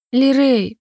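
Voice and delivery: worried mother calling her son from afar; anxious call. Acted. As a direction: call out the boy's name, alarmed. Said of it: "послышался тревожный голос".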